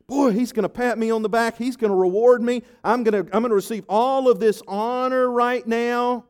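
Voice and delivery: eager gloating. Acted. Haman imagining his reward.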